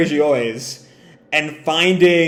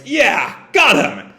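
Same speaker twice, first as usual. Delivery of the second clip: high gleeful cheer; 8 semitones higher, 3 dB louder, slower than usual. Acted. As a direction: crow with high-pitched glee over the hit. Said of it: "The Beast Pirate celebrates".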